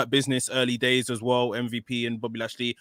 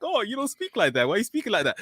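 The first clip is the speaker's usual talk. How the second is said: imagined Big E taunt; 9 semitones higher, faster than usual. Retold or imitated. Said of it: "He's gonna be like".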